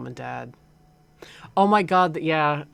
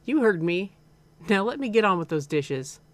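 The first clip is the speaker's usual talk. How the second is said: higher-pitched Southern mother; slightly southern accent; 5 semitones higher, 4 dB louder than usual. Acted. Mom ending the argument with her son, slightly southern accent. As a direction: dismiss your son in a light Southern accent. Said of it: "like, a slightly southern accent".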